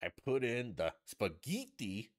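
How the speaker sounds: lightly mocked cook, lingering on the food words; imitating a celebrity TV cook. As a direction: put on her precious, deliberate recipe delivery. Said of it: "you know, and she's like".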